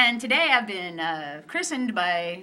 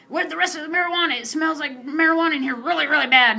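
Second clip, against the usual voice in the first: fast, higher mock accusation; mock accusing cop; 5 semitones higher, 4 dB louder, faster than usual. Woman imitating the chief accusing her of marijuana. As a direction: rattle it off like a pushy cop.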